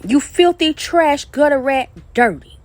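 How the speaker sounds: slow, spat-out words of disgust; slow scornful name-calling; slow contemptuous insults. Real, not acted. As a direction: lay each insult down slowly. Hurling insults in a rant.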